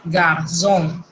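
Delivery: garzón with a French nasal ending; garzón, French style; French pronunciation. Shown as a demonstration. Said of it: "se dice".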